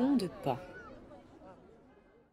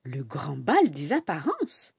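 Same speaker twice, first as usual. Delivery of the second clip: surprised; 4 semitones lower than usual. Acted. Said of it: "n'en croit pas ses oreilles".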